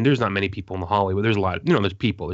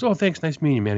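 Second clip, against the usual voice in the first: imitating Dan; 6 semitones higher than usual. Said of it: "he goes".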